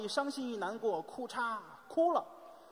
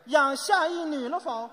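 slow, loud, higher-pitched demand; stern questioning; 5 semitones higher, 8 dB louder, slower than usual. Acted. Husband interrogating his wife about children, stern questioning. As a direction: press the question like an accusation. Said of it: "你看质问".

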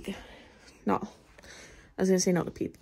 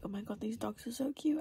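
whispered gush over cute dogs; 4 semitones higher, 8 dB quieter than usual. Retold or imitated. Vlogger whispering to herself about the sniffer dogs. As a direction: breathe it out, unvoiced and secret. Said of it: "I was like".

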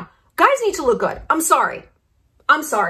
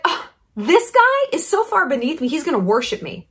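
mock haughty model; 6 semitones higher than usual. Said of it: "And they're like".

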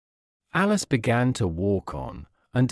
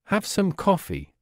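bright, higher friendly offer; 7 semitones higher than usual. A narrator's reading. March Hare offering Alice coffee, friendly. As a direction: offer it like a kind host. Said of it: "said in a friendly voice".

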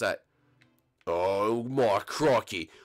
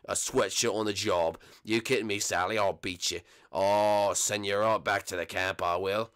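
stern boss; 6 semitones lower than usual. Acted. Boss scolds Sally.

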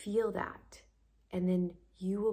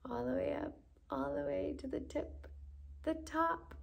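rising breath cue; 8 semitones higher than usual. Acted. Guiding breath upward.

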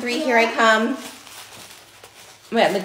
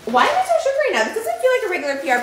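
shook; 12 semitones higher, 4 dB louder, faster than usual. Real, not acted. Overwhelmed by package contents.

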